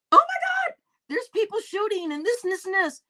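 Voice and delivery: high, frantic retold panic; panicked caller. Caller hiding from shooters, high panicked mock cry. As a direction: gasp it out like a scared caller hiding from gunfire. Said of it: "the lady said".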